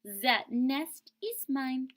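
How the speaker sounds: indignant duck; duck complaining. Acted. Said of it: "cried the duck".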